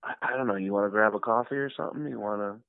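soft, stammering, trailing away; sheepish mumbled invitation. Retold or imitated. Fan offering coffee after a rebuff, sheepish and soft.

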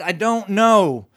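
slow, drawn-out disbelief; lightly voiced sheriff, amazed and slow; a hint of a stunned lawman; sheriff's slow wonder. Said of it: "and he said".

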